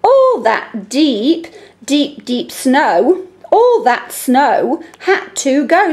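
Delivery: slow, deliberate read-aloud. Shown as a demonstration. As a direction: finish the verse slowly and clearly. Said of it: "Let me finish it off then".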